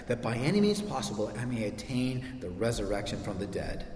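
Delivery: subdued, measured reading; scripture reading. Real, not acted. Pastor reading scripture to congregation, softly solemn.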